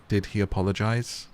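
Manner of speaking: ordinary delivery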